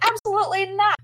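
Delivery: high, loud firm refusal; mock outraged objection; retold arguing. Team arguing with their boss about going, loud refusal. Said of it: "they all start arguing with Coulson".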